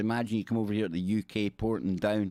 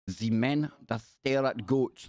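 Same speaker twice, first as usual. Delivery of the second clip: slow mock Russian that slips into German; Russian-turned-German comic accent; bad Russian accent; slower than usual. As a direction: attempt Russian, land in German. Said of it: "do my Russian accent. It always ends up sounding German".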